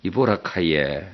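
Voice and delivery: slow, sweet Gyeongsang wife asking; lightly coy Gyeongsang drawl, wheedling; coy Gyeongsang dialect. Acted. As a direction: Gyeongsang wife sweetly asks her husband for a riddle. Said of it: "경상도 남편에게 애교스러운 표정으로".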